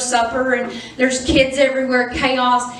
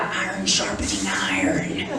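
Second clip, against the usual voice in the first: much lower, softer mock preacher voice; mocking deep quote; 14 semitones lower, 5 dB quieter than usual. Wife mocking the couple's stock phrase in a low drone. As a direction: drop way down and intone it like a sermon. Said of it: "They're always like".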